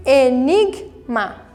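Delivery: "Enigma" broken slowly into e-nig-ma; slow syllable split. Shown as a demonstration. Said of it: "Também fica na sílaba ali anterior".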